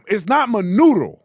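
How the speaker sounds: loud, mocking Spanish "Manuro"; mock Spanish accent. Shown as a demonstration. Host rejecting the reporter's version, mock Spanish accent. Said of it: "It's not Manuro".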